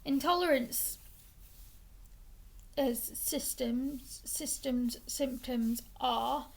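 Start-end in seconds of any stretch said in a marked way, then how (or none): 2.8-6.5 hiccups. Real, not acted. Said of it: "sorry, I've got the hiccups today".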